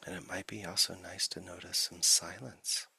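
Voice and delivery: unhurried meditation guide with long silences between phrases; guided meditation. Acted. Teacher settling listeners into the body, guided meditation. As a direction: ease listeners gently into stillness, leaving long pauses.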